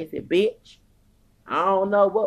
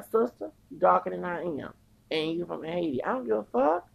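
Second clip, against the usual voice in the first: heated pitched-up tirade; Tariq Nasheed style rant; 2 semitones higher than usual. Pretend. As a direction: preach it at them, voice up. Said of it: "I'm gonna sound like Tariq Nasheed up here".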